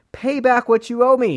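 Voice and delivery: loud, high-pitched angry demand; shouted demand of a creditor; forceful demand. A narrator's reading. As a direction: demand it loudly, voice jumping up. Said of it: "he demanded".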